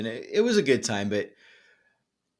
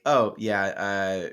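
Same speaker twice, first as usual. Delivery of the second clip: put-on British accent. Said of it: "probably 'cause he's British".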